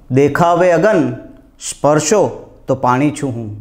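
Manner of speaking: slow, declaimed verse with swooping line endings; measured, lilting Gujarati poem recital; poetry recitation. Acted. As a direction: recite it like a mushaira poet, pausing between phrases. Recites own muktak verse.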